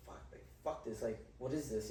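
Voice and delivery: under-the-breath whisper, almost unvoiced; whispered inner thought. Remembering his private reaction before opening the door, whispered. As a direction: whisper it to yourself, dismayed.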